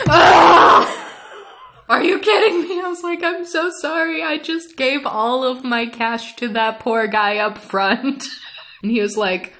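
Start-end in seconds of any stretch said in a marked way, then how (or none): 0.1-1.0 loud, high scream of comic despair; dismayed scream. Retold or imitated. Outburst at cash-only news, retold. 1.9-8.2 high, mock-despairing protest; exasperated disbelief. Dismay at cash-only news, retold.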